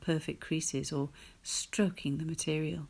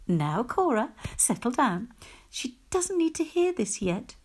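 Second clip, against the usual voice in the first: remonstrating; 6 semitones higher than usual. Acted. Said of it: "remonstrated Missus Scott".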